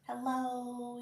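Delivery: usual speaking voice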